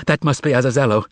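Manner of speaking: cried out gladly. Acted. Margarita greeting Azazello's arrival, joyfully crying out. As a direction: burst out with delight. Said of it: "cried out".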